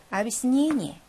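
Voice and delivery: 아비스니니 with the unstressed vowel reduced to "i". Shown as a demonstration. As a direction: demonstrate the "i" sound in 아비스니니. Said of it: "강세가 없어서 이 발음이 됩니다".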